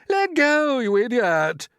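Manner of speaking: high furious shout at him. Acted. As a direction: yell it, shoving him away. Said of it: "shouted the centipede".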